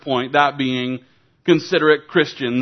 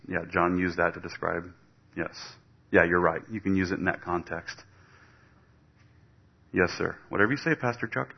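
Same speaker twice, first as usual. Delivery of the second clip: dodging a caller; 6 semitones lower, 6 dB quieter, faster than usual. Acted. Staged phone call mid-sermon.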